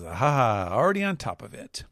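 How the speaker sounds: breezy, a step ahead of the boss; Lafitte voice. Acted. Lafitte answers Blackbeard he is already prepping, quick smug reply. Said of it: "And Lafitte says".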